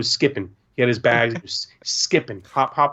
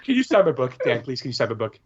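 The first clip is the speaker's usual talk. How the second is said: put-on begging little boy; 2 semitones higher than usual. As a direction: plead like an excited child. Kid begging for autograph.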